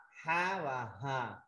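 very slow "ha và hà", each letter drawn out; contrasting two h sounds. Shown as a demonstration. Teacher showing two Arabic letters differ, slow contrasting demo. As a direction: hold "ha", then set "hà" apart as another letter. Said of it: "ha nhỏ và ha lớn là không đúng".

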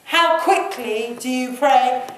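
ordinary talk

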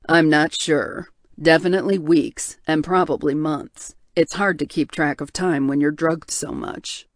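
low, heavy voice of a guilt-ridden man; tortured bear shifter. Acted. Hale, groggy, answers.

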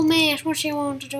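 badly faked Australian accent; playful mock Australian accent; attempted Australian accent. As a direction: try an Australian accent and miss. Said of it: "this doesn't sound like an Australian accent".

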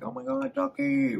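very high squeal through a mouthful of corn dog; mouth full, shrieking. Retold or imitated. Girl spotting Ducky in the pool, mouthful shriek. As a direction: scream his name with food in your mouth. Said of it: "with, like, a full, her mouth's full of corn dog".

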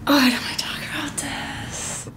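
real tearful voice squeezing up high; getting emotional. Real, not acted. Mother breaking off a scary story, getting emotional. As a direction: choke up and lose your voice toward tears. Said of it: "Why am I getting emotional".

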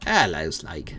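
playful mock British accent on the greeting. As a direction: greet Snake like a hammy Brit. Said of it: "Why am I doing British?".

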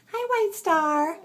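high, slow sing-song hello; pet greeting. Real, not acted. Greeting White Star the kitten, high slow coo.

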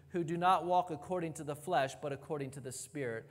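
rushed, fading parenthetical read; quick throwaway. Real, not acted. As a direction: toss the words off fast and let them drop away. Quotes the phrase dropped from manuscripts.

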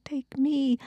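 high breathless whisper; sighed. Acted. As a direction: sigh it out in a whisper. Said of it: "I sighed".

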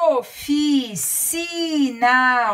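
stretched out, every syllable clear; slow dictation. Shown as a demonstration. Teacher dictating a word to children, slow and clear. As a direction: say it slowly so children can follow. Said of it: "A palavra é".

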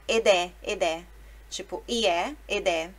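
ed è run together as edé; a teacher modelling edé before a vowel; linked ed è. Shown as a demonstration. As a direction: join ed and è into edé. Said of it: "aí sim é obrigatório".

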